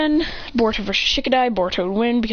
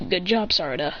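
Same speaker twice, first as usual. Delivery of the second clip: lower, softer and kind; 4 semitones lower, 4 dB quieter than usual. Acted. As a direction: say it gently.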